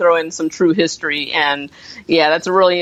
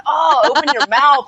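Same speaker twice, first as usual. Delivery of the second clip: exasperated, higher-pitched retort; pitched-up exasperation, half laughing; annoyed; 7 semitones higher than usual. Retold or imitated. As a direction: complain in mock frustration, a laugh breaking in. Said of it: "I was so annoyed".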